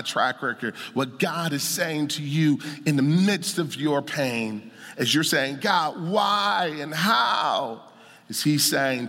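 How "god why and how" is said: slow, pained shout of why; a hurting believer crying out slowly to God; anguished cry to God. Retold or imitated. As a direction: cry out to God, stretching every word. Pleading to God in pain.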